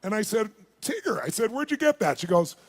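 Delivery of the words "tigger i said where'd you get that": upbeat surprise. Retold or imitated. Excited question about the keychain.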